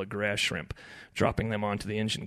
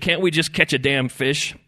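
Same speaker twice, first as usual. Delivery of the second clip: exasperated, raised, loud appeal; pleading; 5 semitones higher, 8 dB louder than usual. A narrator's reading. Brother begs the squabblers to fish, pleading. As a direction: beg them with worn-out patience. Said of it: "Earl pleaded".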